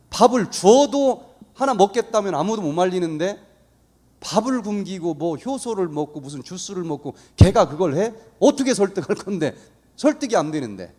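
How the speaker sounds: retold wife's exasperated objection; indignant protest. Wife objecting to bringing their son over, retold indignation. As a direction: act out a wife flatly refusing, with heated emphasis. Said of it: "펄쩍 뛰는 거야".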